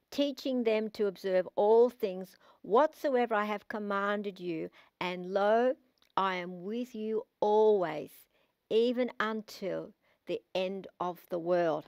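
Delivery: measured, solemn Bible reading with slow stretches; solemn scripture read from the pulpit. Acted. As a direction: read the verse slowly as holy words. Reads scripture aloud.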